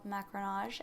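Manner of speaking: French word in a self-confessed terrible accent; attempted French accent. Shown as a demonstration. Baker naming the macaron mixing process, attempted French accent. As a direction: have a go at a French pronunciation. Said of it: "Excuse my terrible accent".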